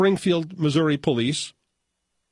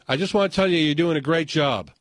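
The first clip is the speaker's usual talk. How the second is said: put-on drunk voice. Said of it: "the drunk voice".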